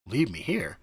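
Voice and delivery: voiceless, alarmed question; whispered disbelief. Retold or imitated. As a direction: breathe it out as it sinks in. Alarmed at Sam's threat.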